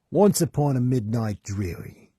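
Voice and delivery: put-on a try at a Boston accent that keeps slipping; attempted Boston accent. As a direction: read the line in a shaky Boston accent. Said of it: "I'm actually trying here".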